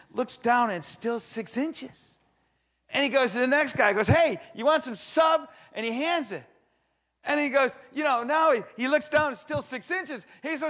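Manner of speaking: high, loud, building excitement; preaching at full force. Acted. Preacher telling the crowd of the miracle, high and loud. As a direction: sweep the room along with rising fervor.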